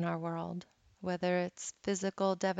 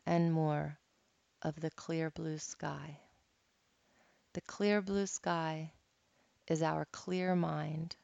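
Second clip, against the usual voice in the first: guided meditation. Acted. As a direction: guide them gently through each breath. Leads a guided cloud meditation.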